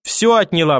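anguished accusation without real tears; lightly acted wail; sobbing out loud, acted. A narrator's reading. Mother losing her son to grandmother, mock sobbing lament. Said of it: "в голос зарыдала мама".

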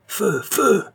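high cry, rising on the repeat; shouted command. A narrator's reading. Armed men cry out to open fire, shouting. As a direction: yell the order to fire. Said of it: "crient plusieurs voix".

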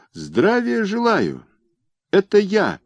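bleating cry. A narrator's reading. Merchant bleats a high greeting to wake the sleeping governor. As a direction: bleat it out like a little sheep. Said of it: "барашком крикнул".

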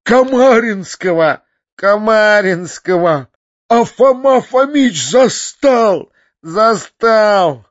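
high, loud, drawn-out bawling; sobbing wail. A narrator's reading. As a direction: wail each phrase like a crying boy. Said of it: "проревел Фалалей, всхлипывая". (протяжный плачущий рёв)

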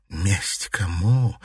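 slow, weary bitterness; bitter question. Acted. Mother bitterly questioning her daughter's revenge, sad. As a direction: ask it heavy with regret. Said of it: "с горечью спросила Шадурская".

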